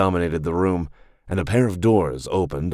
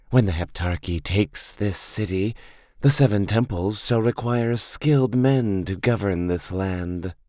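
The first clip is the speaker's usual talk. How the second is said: dark priestess voice; 2 semitones higher than usual. Acted. Dark priestess promises reward.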